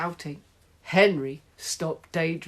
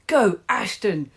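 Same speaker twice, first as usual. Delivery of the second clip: louder excited cheer; shrieking; 4 semitones higher, 7 dB louder than usual. Acted. Henry by the radio, excited shriek. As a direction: cheer the team on. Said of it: "shrieked Horrid Henry".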